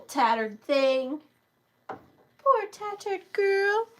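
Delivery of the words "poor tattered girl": British accent. Real, not acted. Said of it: "this weird British accent has come from".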